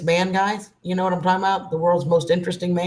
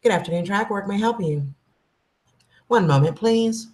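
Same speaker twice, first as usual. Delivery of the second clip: office voice; 3 semitones higher than usual. Shown as a demonstration. Demoing her work phone voice to the chat, polite receptionist. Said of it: "my office voice".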